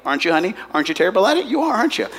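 rising, needling mock questions to the husband; teasing jab. Pastor teasing a husband in the congregation, needling. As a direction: poke fun at him with a grin.

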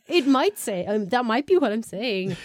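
breathy sly whisper, half-joking. Real, not acted. To her cohost, admitting the film's message, coy whisper. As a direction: whisper it like a guilty confession. Coy admission after pointed question.

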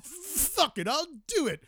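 suddenly high, giving-in squeak. Acted. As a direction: cave in with a high yelp. Adam gives in to Stacy.

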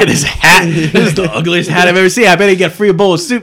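Rodney Dangerfield. Retold or imitated. Quoting Caddyshack.

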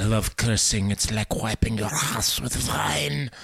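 slow imitation of a French accent; lightly voiced French villain imitation; mock French accent. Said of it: "that guy from The Matrix".

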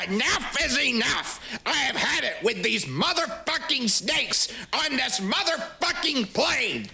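slow, high, furious movie shout; hammed-up action-hero rage; Samuel L. Jackson impression. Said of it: "pick your impression".

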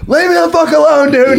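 high, loud shouted brush-off; retold yell. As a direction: yell him away, voice jumping up. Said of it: "I had to, like, yell at him".

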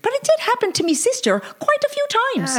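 very high Irish punchline; hammy Irishman delivering the kicker; Irish accent. Acted. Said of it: "admitted the Irishman".

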